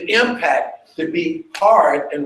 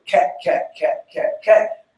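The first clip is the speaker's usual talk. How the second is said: light cat cues. Shown as a demonstration. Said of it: "difference in the texture".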